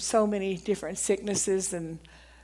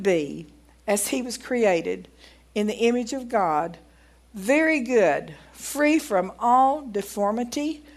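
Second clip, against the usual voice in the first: reading aloud. Acted. Preacher reading the doctor's parable to the congregation, emphatic read-aloud. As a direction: read it out deliberately, phrase by phrase.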